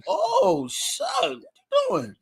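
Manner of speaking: very high, slow mock wail; acted pained surprise. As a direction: squeal in hammed-up alarm at the pressure. Acts out pain under tiny hands.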